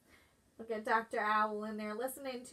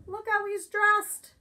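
usual speaking voice

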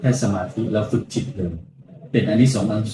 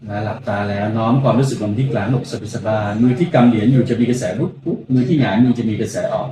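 guided meditation; 2 semitones lower than usual. Acted. Monk leads guided meditation.

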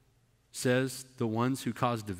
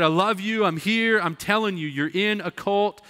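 higher, urgent loving plea; earnest pleading; 5 semitones higher, 3 dB louder than usual. Retold or imitated. Preacher retells pleading with a family member, earnest pleading. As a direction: beg her to stay with you. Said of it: "and I said".

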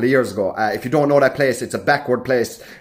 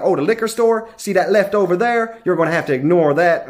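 lightly voiced helpful sheriff, starting higher; sheriff giving directions; 3 semitones higher than usual. Sheriff directing tourists to the liquor store, lightly voiced. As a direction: start up high, then settle into local directions. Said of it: "the reason I knew he was Irish".

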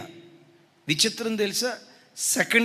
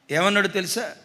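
ordinary talk

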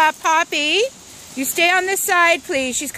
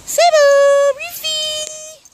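calling out; 10 semitones higher, 3 dB louder, much slower than usual. Real, not acted. Calling out to pets outdoors.

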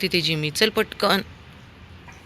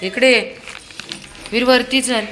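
loud call to the dog; 6 semitones higher, 5 dB louder than usual. Real, not acted. Owner calls her dog Veer upstairs, raised call.

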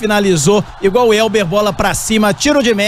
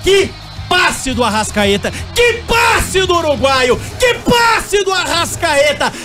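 excited shouting; 5 semitones higher, slower than usual. Real, not acted. Replay exclamation.

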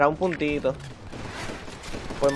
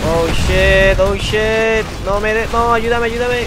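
panicked; 4 semitones higher, 4 dB louder, slower than usual. Real, not acted. Panicking under attack in game.

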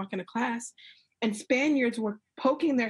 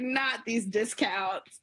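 retold disbelief; much slower than usual. Retelling her disbelief at the misunderstanding.

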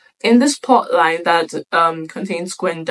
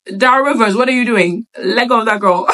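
put-on head girl scolding; 3 semitones higher, 4 dB louder than usual. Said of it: "she's like".

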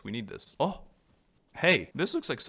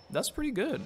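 less high repeat; 11 semitones higher than usual. Acted. Streamer repeating her approval, toned down. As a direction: echo it a little less squeaky.

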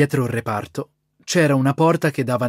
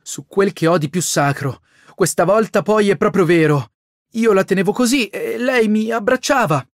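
swearing brother; 5 semitones higher than usual. A narrator's reading. Brother swearing to his sister, mildly higher and insistent. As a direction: swear on all that's sacred. Jean swearing it's true.

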